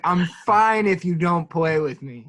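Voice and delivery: drawn-out mock hurt; slow, lightly sulky imitation; guilt-tripping tone. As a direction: imitate a teammate pretending not to mind. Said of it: "giving us that tone".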